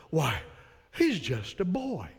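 light, slow Texas drawl on a dismissive line; a hint of an old Texas preacher brushing off a boy; old Texas pastor. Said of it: "I don't have a good Texas South accent".

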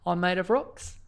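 a hint of a Kiwi rock creature, lightly voiced; Korg voice. Doing Korg for a requested Kiwi-accent plug, lightly voiced. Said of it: "I have to talk like Korg".

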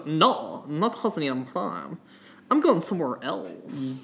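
put-on a light Neimoidian accent, hushed. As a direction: slip into a hint of Neimoidian accent. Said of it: "slip into a little Neimoidian".

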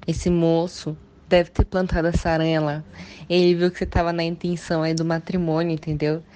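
normal talking voice

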